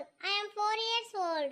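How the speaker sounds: put-on slow, drawn-out child's boast; proud child. The little girl insists she is big now, slow and drawn out. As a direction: stretch each word like a stubborn little kid.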